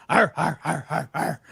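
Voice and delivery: caveman grunts; grunting like Tim Allen. Pretend. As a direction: grunt like Home Improvement. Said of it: "like that".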